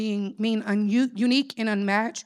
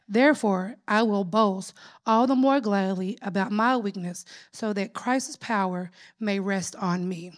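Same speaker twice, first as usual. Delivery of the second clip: scripture reading. Acted. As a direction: read the verse with weight.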